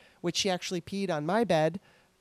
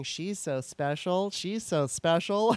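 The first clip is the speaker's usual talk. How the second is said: hypnotic repeat; slower than usual. Retold or imitated. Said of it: "it was like I was getting hypnotized".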